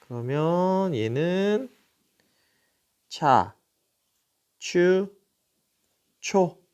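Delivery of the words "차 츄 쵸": 차, 추, 초 each held alone as one gliding syllable, cha, chyu, cho; syllable demonstration. Shown as a demonstration. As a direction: teach 차, 추, 초 one at a time, with pauses. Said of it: "이렇게 읽겠죠".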